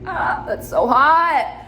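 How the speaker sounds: high, loud, drawn-out swoon. Retold or imitated. Gushing to viewers about the Italian server's Spanish, swooning. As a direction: gush and stretch it out, smitten. Retells swooning over the accent.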